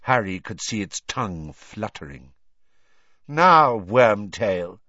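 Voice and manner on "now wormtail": loud, cold Dark Lord command. A narrator's reading. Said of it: "said the cold voice".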